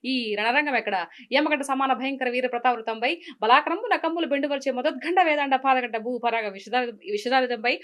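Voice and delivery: grand mythological villain dialogue, lightly voiced; S. V. Ranga Rao dialogue. Villain king taunting the warrior woman, grand declaiming. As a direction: roll out the old film speech like a stage king. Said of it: "అని SV Rangarao గారు చెప్తారు".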